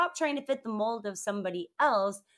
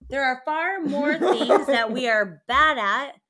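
shouting; 6 dB louder than usual. Real, not acted. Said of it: "you just screamed that".

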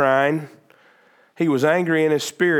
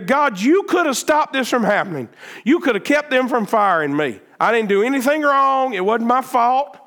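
a raised, pleading voice blaming God; pleading complaint; 6 semitones higher than usual. Retold or imitated. Believer who lost his job complains to God, raised and pleading. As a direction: press the complaint hard, higher.

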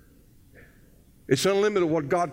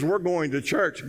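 slow, settled statement at usual pitch; firm answer. Acted. Wife answering her protesting husband, slow and firm. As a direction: state it slowly, no argument allowed. Wife's unbudging answer, retold.

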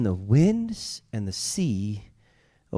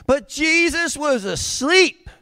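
dramatic emphasis; 12 semitones higher, 4 dB louder, slower than usual. Acted. Preacher dramatizes sleeping Jesus.

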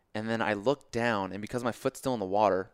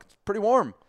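pitched way up and louder; strained polite reply; 11 semitones higher, 7 dB louder than usual. Retold or imitated. Limping swimmer answering a chatty dog walker, strained politeness. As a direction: imitate forced small talk in a high voice.

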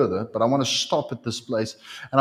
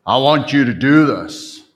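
louder, declaring from over the congregation; loud command; 9 dB louder than usual. Shown as a demonstration. Preacher shows how God does not speak, loud. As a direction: proclaim "I want you to do this." loudly. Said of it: "didn't stand over here and say".

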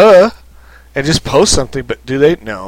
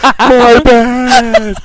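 higher, louder mock apology; sheepish Balrog; 10 semitones higher, 6 dB louder than usual. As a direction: shrug it off. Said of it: "He's like".

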